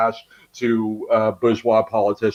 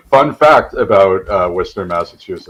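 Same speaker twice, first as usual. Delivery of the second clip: soothing radio voice; 3 semitones lower, 7 dB louder than usual. Pretend. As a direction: ease into a calm DJ voice. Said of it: "do my soothing radio voice".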